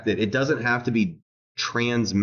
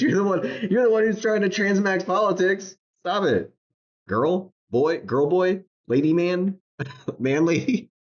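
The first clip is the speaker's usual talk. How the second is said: high taunting chant, voice pitched up; mocking sing-song; 8 semitones higher than usual. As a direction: tease them in a sing-song.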